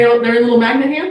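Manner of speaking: laughing loudly through the words; amused loud laugh. Real, not acted. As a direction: giggle it out loud. Laughing reveal of detachable socks.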